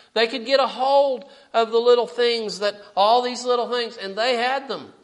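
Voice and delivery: loud, driving sermon delivery; fervent preaching. Real, not acted. Preacher telling the congregation of the meek king, fervent preaching.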